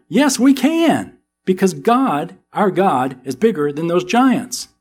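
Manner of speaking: a bold, rising "Yes, we can", drawn out slow and high; confident Caleb. Retold or imitated. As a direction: proclaim faith against the giants. Caleb answers the fearful spies.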